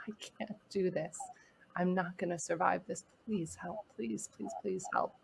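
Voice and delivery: understated, softly pleading retelling; a hushed echo of begging for help; retold sobbing plea. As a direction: plead quietly, recalling a desperate moment. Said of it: "sobbing and pounding my fists".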